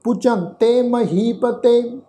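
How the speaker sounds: slow, measured Gurbani recitation; scripture recitation. Shown as a demonstration. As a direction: draw out each word of the verse. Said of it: "ਸਮੁੱਚਾ ਪਾਠ ਉਚਾਰਨ ਕਰਦੇ ਹਾਂ".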